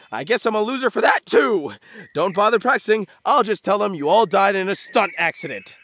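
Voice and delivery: bitter, melodramatic guilt trip; guilt-tripping. Acted. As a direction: lay the blame on thick, as the wounded victim. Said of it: "he's guilt-tripping us".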